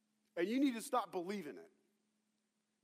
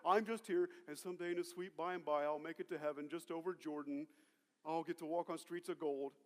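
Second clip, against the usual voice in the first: lower, softer, passive musing; mock complacency; 4 semitones lower, 5 dB quieter than usual. Believer content to wait for heaven, mock complacency. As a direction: settle back into resigned piety. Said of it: "You gotta stop thinking that".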